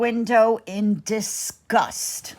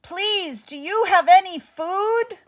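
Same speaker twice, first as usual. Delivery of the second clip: put-on pleading boy; 9 semitones higher than usual. Jack pleads with giantess.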